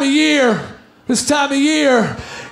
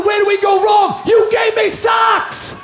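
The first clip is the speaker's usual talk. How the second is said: mock parents lament; 4 semitones higher than usual. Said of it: "My parents going".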